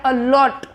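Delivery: अलॉट with a light अ and a strong लॉट; stress on second syllable. Shown as a demonstration. Teacher showing students where stress falls, stressed second syllable. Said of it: "इस पे stress किस पे पड़ा है".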